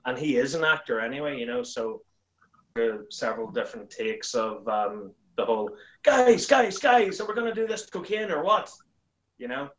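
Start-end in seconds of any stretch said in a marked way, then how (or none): 6.0-8.7 louder, high-pitched rallying of the guys; hammed-up urgent call. Calling the guys to the job in the sketch, hammed-up urgent shout. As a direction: call out over the group, pitched up. Acted line from his sketch.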